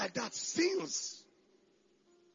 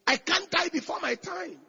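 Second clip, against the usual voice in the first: higher, bold near-shout; audacious declaration; 7 semitones higher than usual. Shown as a demonstration. Preacher showing the congregation how to talk, audacious declaration. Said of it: "Talk audaciously".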